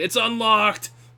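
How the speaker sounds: high yell through a closed door. Game master voicing the reply to a knock on the door, Ingvar yelling from inside. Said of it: "You hear Ingvar yell from inside".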